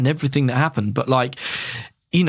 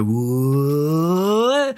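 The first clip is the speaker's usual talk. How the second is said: crowd whoa. Retold or imitated. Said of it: "they go".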